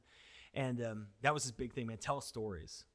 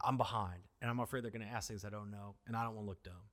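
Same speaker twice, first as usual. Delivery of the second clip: put-on nervous teen; 3 semitones lower, 5 dB quieter than usual. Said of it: "he's like".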